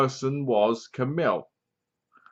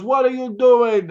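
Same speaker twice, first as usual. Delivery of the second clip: high, louder startled cry; alarmed shout; 10 semitones higher, 5 dB louder than usual. Retold or imitated. Toulon seeing Jester take the formula, high loud alarm. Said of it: "He goes".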